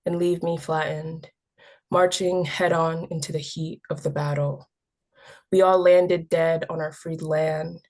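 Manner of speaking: measured poem reading with pauses between phrases; poem recitation. Acted. Youth poet reading own war poem to an audience, measured recitation. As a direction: read it as verse, line by line.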